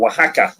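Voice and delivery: Oaxaca said as wah-HAH-kah; correct pronunciation. Shown as a demonstration. Guest gently corrects host on the state's name, Oaxaca as wah-HAH-kah. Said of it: "that state is actually called".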